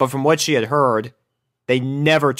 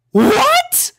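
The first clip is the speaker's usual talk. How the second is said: much higher, startled; stunned; 5 dB louder than usual. A narrator's reading. Rarity shocked by her sister's request, stunned. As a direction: caught completely off guard. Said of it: "stuttered Rarity".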